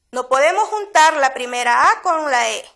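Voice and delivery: ordinary talk, nothing marked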